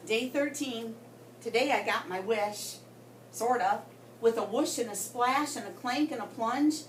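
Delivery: put-on lively read-aloud voice for children; story narration. A narrator's reading. Teacher reading aloud to her class, lively storytelling. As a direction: tell the goldfish diary to the class.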